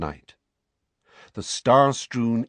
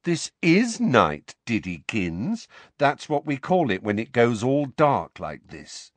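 mocking; 3 semitones higher than usual. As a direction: talk down to him. Harry mocking Dudley.

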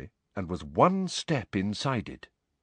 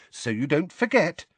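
higher, helpful nudge; encouraging; 7 semitones higher than usual. A narrator's reading. Hermione reminds Harry about homework, encouraging. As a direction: lift it into a friendly reminder. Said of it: "said Hermione encouragingly".

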